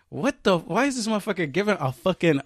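high-pitched incredulous complaint; retold exasperation. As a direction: act out fed-up disbelief at a windbag. Retelling exasperation at long speech.

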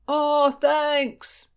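high, loud call of thanks. A narrator's reading. Boy calls thanks to rescuers as he pulls away, high call. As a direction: call it across the water.

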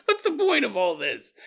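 half-whispered, mock weary plea; lightly voiced fed-up abductee; exasperated plea. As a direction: plead to the aliens with a sigh. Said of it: "Antonio's probably like".

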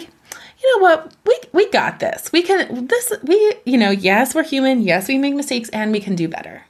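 rally yourself like a cheering parent; firm parent. Retold or imitated. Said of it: "embody a firm parent".

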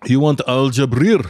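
sleazy, half-laughing offer; creepy. Pretend. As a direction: lean in like a creep. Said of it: "make it sound creepy".

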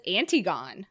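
Antigone read phonetically as AN-tee-gon; matter-of-fact "Antigone" rhyming with gone; naive misreading. Retold or imitated. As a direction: misread Antigone, no sounded final e. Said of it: "It just says Antigone".

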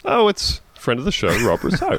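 put-on high laughing Canadian accent intro. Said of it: "I'm gonna do a Canadian accent".

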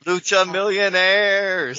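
slow, booming ring announcer; wrestling announcer call. Pretend. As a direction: stretch it out like a lucha announcer. Hyped joking call-out.

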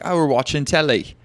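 teasing British affectation; imitated London accent. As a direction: put on a light London accent. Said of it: "pick up some of those accents".

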